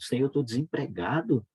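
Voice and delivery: insistent, mildly desperate retold prayer; urgent pleading with a slight lift in the voice; retold tearful plea. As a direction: beg God for an answer, re-enacting it lightly. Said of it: "E eu, eu chorando".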